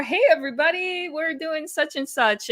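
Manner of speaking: bright hello to the viewers; vlogger intro voice. Shown as a demonstration. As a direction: switch into YouTube host mode. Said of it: "and then I'll just".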